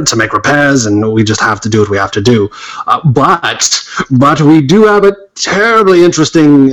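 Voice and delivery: British guard character. Acted. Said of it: "let me get in character".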